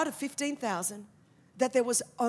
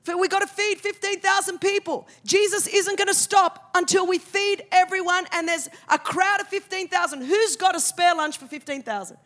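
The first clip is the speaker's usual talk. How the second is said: disciples calling out; 3 semitones higher, 4 dB louder than usual. Retold or imitated. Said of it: "they said".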